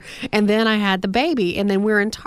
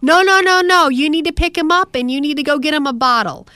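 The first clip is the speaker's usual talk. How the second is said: pushy stranger; 5 semitones higher, 4 dB louder than usual. Retold or imitated. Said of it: "this older woman stopped me and goes".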